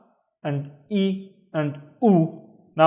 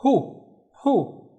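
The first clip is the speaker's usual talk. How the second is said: high modeled syllable; 8 semitones higher than usual. Shown as a demonstration. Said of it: "ha with a dhamma is".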